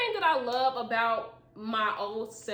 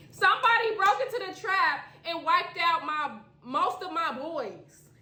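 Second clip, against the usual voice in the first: dramatic; 7 semitones higher, 5 dB louder than usual. Acted. Dramatic reread.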